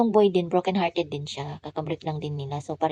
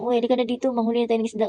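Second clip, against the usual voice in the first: put-on friends calling the boy over, louder; 5 semitones higher, 6 dB louder, much faster than usual. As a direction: shout him over to fish.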